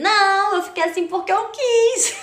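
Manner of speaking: put-on high, loud, defiant little-girl retort; mock angry child. Child answers mother after the show, mock defiant. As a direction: imitate a stubborn child protesting loudly. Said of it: "eu só tava com raiva".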